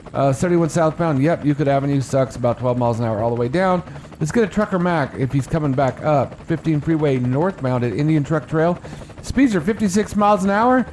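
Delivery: brisk radio traffic report; traffic report read. Acted.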